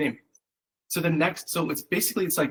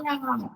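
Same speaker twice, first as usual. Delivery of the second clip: mock gibberish squeal; 11 semitones higher, 6 dB quieter than usual. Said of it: "starts screaming random gibberish".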